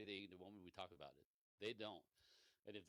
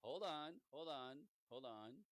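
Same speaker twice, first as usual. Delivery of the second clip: calming inner voice; 5 semitones higher, much slower than usual. Retold or imitated. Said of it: "my voice came up in her head".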